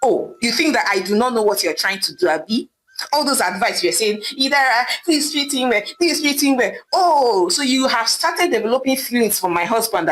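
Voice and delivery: jealous wife snapping at her sister; angry scolding. Acted. Wife ordering her sister out, mildly angry. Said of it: "Idara screamed angrily".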